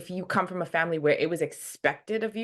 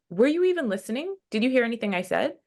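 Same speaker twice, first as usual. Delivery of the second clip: impatient accusing quote; 6 semitones higher, faster than usual. Retold or imitated. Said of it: "And then they go".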